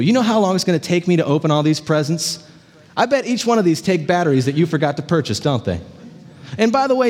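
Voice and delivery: put-on complaining teen son, quick and indignant; whiny complaining son. Pessimist son griping to his dad about his presents, indignant whine. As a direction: grumble like a spoiled kid who finds fault with everything.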